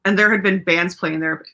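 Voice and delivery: a bit slurred, hiccupy. Real, not acted. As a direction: let the words slur slightly. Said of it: "now I sound like a drunk".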